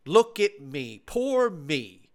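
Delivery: lightly mock attention-seeking critics; mock attention seeker. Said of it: "more look at me".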